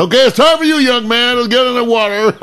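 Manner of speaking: booming fake-friendly father; a dad sizing up his daughter's date, mock hearty; imitating the dad. Dad voiced in retold story.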